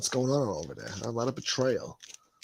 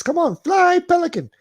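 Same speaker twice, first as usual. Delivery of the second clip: high cheer; 9 dB louder than usual. Acted. Cheering on a pelican.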